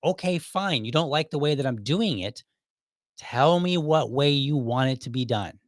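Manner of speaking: exasperated concession, starting high; frustrated. Retold or imitated. Employee asks manager for the wanted method, frustrated. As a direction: give in, then demand with mild frustration. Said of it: "this was a huge frustration".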